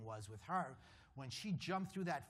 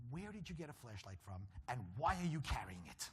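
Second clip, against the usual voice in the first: mock incredulous; 2 semitones higher than usual. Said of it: "I was thinking to myself".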